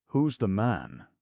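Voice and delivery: slow, loud bellow like a big dog; bay it out, slow and heavy; baying demand. A narrator's reading. Monty demanding the lover's name, baying loudly. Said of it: "bayed Monty like a huge dog".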